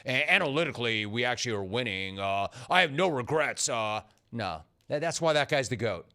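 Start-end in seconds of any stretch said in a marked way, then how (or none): 0.0-3.7 a hint of a sheepish coach; mocking a coach. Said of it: "You don't say things like".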